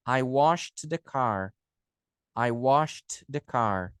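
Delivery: slow sentence, "washed" said "wosht"; SH plus T ending. Shown as a demonstration. Teacher translating for students, slow "washed" ending in T. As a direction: take it slowly, releasing the T of "washed". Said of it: "A mesma coisa no S H".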